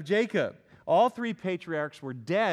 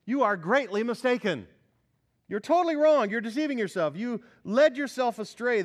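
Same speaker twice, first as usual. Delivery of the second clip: high, loud, fiery rebuke; Jesus rebuking the Sadducees; 4 semitones higher, 5 dB louder than usual. Retold or imitated. Jesus scolding the Sadducees, preached loud and high. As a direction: thunder the correction at them. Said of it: "So Jesus says to the Sads".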